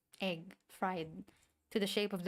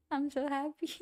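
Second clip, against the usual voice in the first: higher and louder, bursting with joy; overjoyed; 7 semitones higher, 6 dB louder than usual. Real, not acted. Streamer thanked for fan art, gushing with joy. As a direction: gush it out happily. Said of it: "overjoyed at fan art offer".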